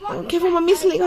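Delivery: high, loud and choked with tears; real emotional homecoming, voice breaking; tearful happy reunion. Real, not acted. Tearful reunion with her kids.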